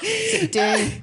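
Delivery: high, slow words through laughter; laughing. Real, not acted. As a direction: crack up on the callback. Callback joke amid group laughter.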